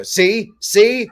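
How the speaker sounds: high, loud triumphant "See? See?"; triumphant gotcha. Retold or imitated. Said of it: "snap her finger and go".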